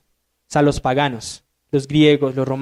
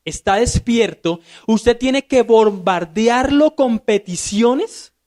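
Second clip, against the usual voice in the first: imitating pagan worshippers; 3 semitones higher, slower than usual. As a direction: spell out the pagan belief slowly and pointedly. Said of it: "ellos pensaban de esta manera".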